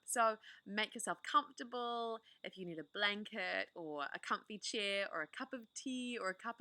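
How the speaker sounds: gentle, inviting host voice settling listeners in; cosy storytime welcome. Acted. Storyteller inviting listeners to get comfortable, gently. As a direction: welcome them in like a bedtime reader. Warm host intro to a read-aloud.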